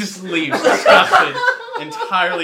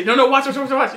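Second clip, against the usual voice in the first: eager boast; 10 semitones higher, 7 dB louder than usual. Retold or imitated. Player's boast acted out.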